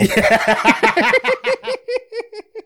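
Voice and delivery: very high, loud laugh; shrieking laugh. Real, not acted. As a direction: howl with laughter. Laughing at the car line.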